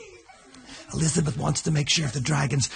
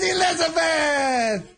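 snooty prince; 11 semitones higher, slower than usual. Acted. Snobbish prince scolds.

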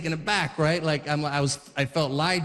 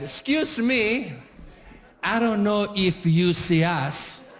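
overly polite dad; slower than usual. Retold or imitated. Dad politely confronts line-cutter.

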